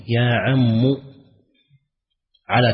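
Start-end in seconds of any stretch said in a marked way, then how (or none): 0.1-0.8 "يا عم" ending in a short u on the mim; damma on mim. Shown as a demonstration. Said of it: "ضم الميم". ("يا عمُ" بضم الميم)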